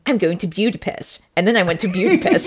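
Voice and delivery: imitating an actor saying Budapest as "Byoo-da-pest"; strange pronunciation. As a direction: turn the first syllable of Budapest into "byoo". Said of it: "two times, very strangely".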